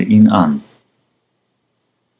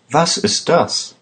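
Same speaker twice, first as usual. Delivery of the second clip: higher-pitched startled question; surprised; 8 semitones higher than usual. A narrator's reading. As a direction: ask it in surprise, pitch lifted. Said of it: "sagte Lisa überrascht".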